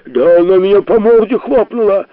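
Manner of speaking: high, loud indignant squeal; shrill squeal. A narrator's reading. Sharikov squeals his complaint at the professor, high and loud. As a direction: squeal it out like a wronged brat. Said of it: "взвизгнул Шариков".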